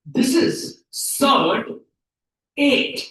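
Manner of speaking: slow, separate words for the class; word-by-word reading. Shown as a demonstration. Teacher shows students how to read it, word by word. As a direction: model the term with pauses between words. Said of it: "इसको क्या pronounce करेंगे".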